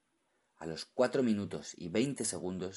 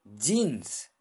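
sobbing; 3 semitones higher, 6 dB louder than usual. Acted. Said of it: "sollozó el cingalés".

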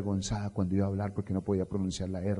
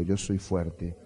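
declaration; 5 semitones lower than usual. Shown as a demonstration. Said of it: "Dígalo conmigo".

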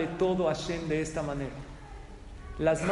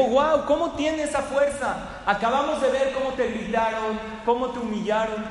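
high, marvelling guest; retold amazement; 7 semitones higher, 4 dB louder than usual. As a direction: marvel at her, stretching the wow. Amazed couple question the receptionist.

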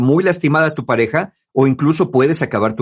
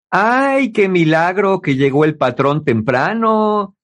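mock sarcastic jab at the boss, lightly voiced; a hint of snide teasing; sarcastic mockery. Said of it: "Como cuando dicen". (burla sarcástica leve)

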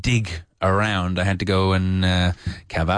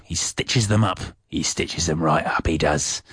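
slight slip into Cockney, lower pitch; Cockney-ish London accent; 5 semitones lower than usual. Shown as a demonstration. Teacher illustrating a stitch-up, slipping into Cockney. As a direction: let a little London Cockney creep in. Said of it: "I'm slipping slightly into a Cockney-ish London accent".

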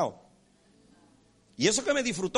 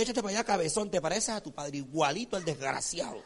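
lower, softer contemptuous grumble; mock dismissive scolding; 4 semitones lower, 4 dB quieter than usual. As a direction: imitate a mother brushing off her child. Mother scolding her own child, mimicked. (regaño despectivo de madre, imitado)

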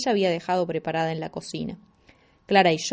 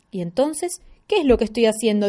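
indignant; 2 semitones higher, 3 dB louder than usual. Acted. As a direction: snap back, offended. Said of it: "dijo indignada".

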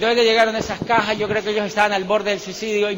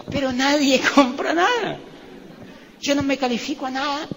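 higher-pitched mock complaint; queja imitada; 5 semitones higher than usual. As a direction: retell a recruit's whine, pitched up. Retold complaint of the recruit. (queja imitada en tono más agudo)

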